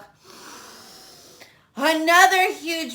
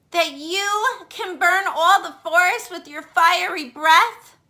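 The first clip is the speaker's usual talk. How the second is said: put-on higher, sweet flattering girl voice; butter him up, wide-eyed; flattering princess; 6 semitones higher, 3 dB louder than usual. Elizabeth voiced in story.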